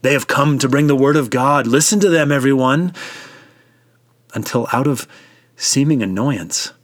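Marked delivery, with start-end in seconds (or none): 0.0-2.9 mocking scoff. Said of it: "began to mock and to scoff".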